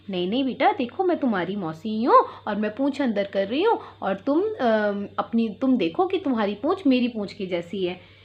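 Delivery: lightly voiced, sweet-talking fox; sweet coaxing. Fox sweet-talks the kids through the door, lightly coaxing. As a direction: coax gently, a touch sugary. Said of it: "यानी कि बड़े प्यार से बोली".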